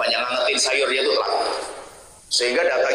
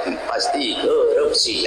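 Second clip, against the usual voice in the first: snide suspicious remark; much slower than usual. Retold or imitated. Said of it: "apa katanya?".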